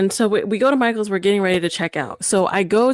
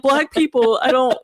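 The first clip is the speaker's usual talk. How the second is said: mock scared lady; 4 semitones higher than usual. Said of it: "that lady was just like".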